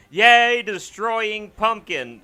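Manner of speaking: high, loud yay then slow; playful mock cheer while smashing. Real, not acted.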